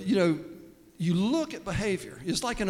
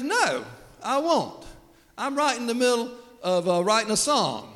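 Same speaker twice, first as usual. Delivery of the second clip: lazy son; 7 semitones higher, 3 dB louder than usual. Retold or imitated. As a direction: whine it like a bored kid. Lazy son refusing dad.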